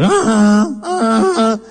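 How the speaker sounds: mock a busted horn with a croaky bark; broken car horn imitation. Imitating his brother's broken car horn in traffic, a croaky honking bark. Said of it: "Sonaba como un perro disfónico".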